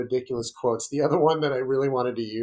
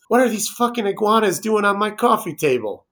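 mock Cage outburst; 7 semitones higher, 5 dB louder than usual. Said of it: "the quote is".

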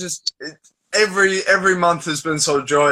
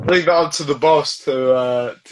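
finger over the mic. Real, not acted. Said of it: "you're covering the microphone there".

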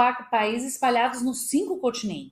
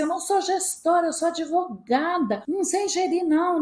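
flustered protest; 7 semitones higher than usual. Retold or imitated. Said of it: "eu falava assim".

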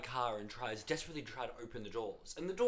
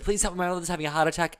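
retold plea; 5 semitones higher, 7 dB louder, faster than usual. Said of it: "jumped into their car and said".

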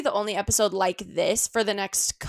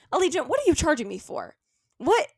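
indignant call-out; 5 semitones higher than usual. Real, not acted. Calling out the airline.

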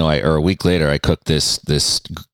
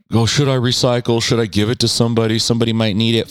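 mock goody-goody voice; 4 semitones higher, faster than usual. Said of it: "I'm like".

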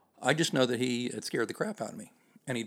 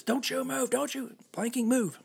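yelling cop. Retold or imitated. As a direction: yell it like a frantic cop. Officer yelling, gun drawn.

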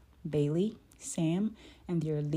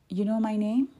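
higher, louder amazed question; surprised; 5 semitones higher, 6 dB louder than usual. A narrator's reading. Girl learns the shopkeeper knows her, surprised. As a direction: ask in raised-pitch astonishment.

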